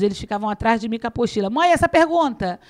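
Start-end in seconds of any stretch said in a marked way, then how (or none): 1.5-2.6 put-on higher, louder quizzing kids; lightly mimicked children's insistent calls; imitating eager children. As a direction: call out like children pestering mum. Children quizzing mother from handout.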